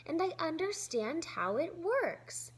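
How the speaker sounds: high, loud, bursting with joy; excited shout. Acted. Felix bursting in shouting to Grandpa, excited. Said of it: "he shouted".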